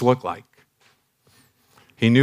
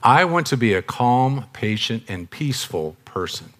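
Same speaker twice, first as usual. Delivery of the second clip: calm, patient. Shown as a demonstration. Speaker choosing his attitude as he says it, calm. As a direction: settle down into a calm, peaceful statement. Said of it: "what kind of attitude I'm gonna have as I say it".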